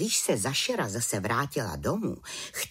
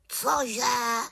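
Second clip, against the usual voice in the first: high startled squawk of a raven; horrified; 11 semitones higher than usual. Acted. The raven, shocked at the idea, high startled cry. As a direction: recoil in alarm. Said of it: "zděšeně zvolal Abraxas".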